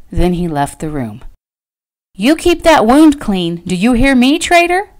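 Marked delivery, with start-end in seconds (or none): 2.1-4.9 calling after him. A narrator's reading. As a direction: call after someone leaving. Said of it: "Patty called after him".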